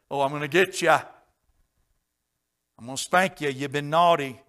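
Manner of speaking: loud, teasing mock threat; mock wrathful God. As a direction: ham up a scolding punisher. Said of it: "We're all scared of the wrath".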